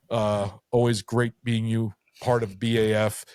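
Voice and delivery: a bit buzzed, words loose; tipsy. Real, not acted. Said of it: "I'm a little tipsy now".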